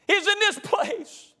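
sudden high, slow ring-out; lifted cry. Shown as a demonstration. Preacher voicing the old members, cried out high and slow. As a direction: lift it up high and hold it. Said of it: "loud take set against the whisper".

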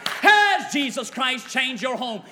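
preacher roaring the refrain; full-force preaching. Acted.

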